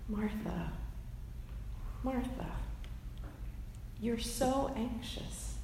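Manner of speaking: soft, tender, gently exasperated; loving exasperation. Retold or imitated. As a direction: say it softly, fondly shaking your head. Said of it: "loving exasperation".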